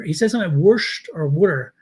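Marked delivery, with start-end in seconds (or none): 0.6-1.1 Baltimore drawl on Wurscht, r-colored like wursh; Baltimore accent. Shown as a demonstration. Talking accents with a Baltimore man, Baltimore Wurscht. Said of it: "because we say". 1.3-1.7 Baltimore Wooder, water said as wooder with a d; Baltimore accent. Shown as a demonstration. Showing the Baltimore way of saying water, Baltimore Wooder. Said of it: "because we say".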